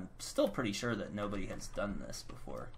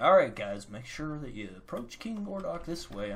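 raid leader; 5 semitones higher, 5 dB louder than usual. Retold or imitated. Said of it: "I'm like".

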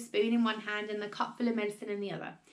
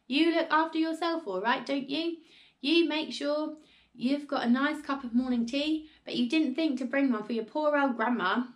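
accusing crow; 6 semitones higher, 3 dB louder than usual. Acted. Grandma accuses George of selfishness.

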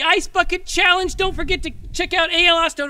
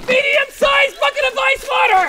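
shouting; 6 semitones higher than usual. Real, not acted. Announcing each bucket dumped.

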